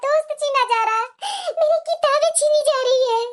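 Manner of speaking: measured inner monologue in short phrases; voice-over monologue. Acted. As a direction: narrate the bride's plight, phrase by phrase. (आपबीती सुनाता voice-over)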